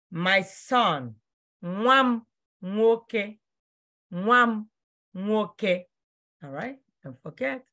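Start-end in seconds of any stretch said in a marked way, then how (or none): 1.6-5.9 "nwa m nwoke" said slowly for learners; slow, careful teacher's model of "nwa m nwoke"; slow pronunciation model. Shown as a demonstration. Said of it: "I want you to know how to pronounce it".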